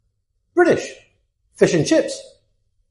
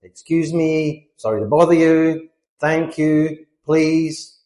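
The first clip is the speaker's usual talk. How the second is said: polite; slower than usual. Shown as a demonstration. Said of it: "we use politeness tags".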